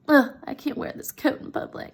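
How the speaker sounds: breathy, voiceless scorn; disgusted whine. Retold or imitated. Wife refusing her plain coat, voiceless and disdainful. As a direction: sneer at the shabby coat.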